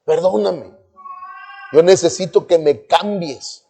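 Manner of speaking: soft, retold prayer of repentance; humble plea. Young man praying to God for forgiveness, humbly pleading. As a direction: plead quietly, as if head bowed. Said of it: "agachar la cabeza y decir".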